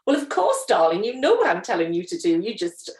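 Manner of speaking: crisp disapproving governess; stern schoolmistress. Retold or imitated. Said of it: "this little lady in my head telling me".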